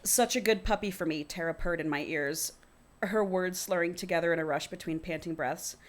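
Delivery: reading a novel aloud; story narration. A narrator's reading. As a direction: read it out as first-person fiction. Reads the book aloud.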